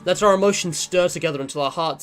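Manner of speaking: poem reading. Acted. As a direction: read it like a love poem.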